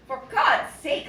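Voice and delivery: loud slow outcry; exclamation. A narrator's reading. Gonzalo crying out to his uncle after the blow. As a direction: cry it out wounded.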